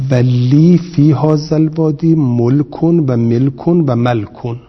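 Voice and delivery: ملکن read with molk, then melk, then malk, slowly; three vowel readings. Shown as a demonstration. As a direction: contrast the vowel variants of ملکن one by one. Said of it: "اینم درسته".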